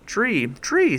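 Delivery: crowd calling. A narrator's reading. A dozen animals vote tree, calling out loudly. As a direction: shout it like a whole crowd. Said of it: "said a dozen voices".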